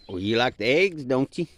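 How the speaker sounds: calling out. Real, not acted. Teasing call across the yard.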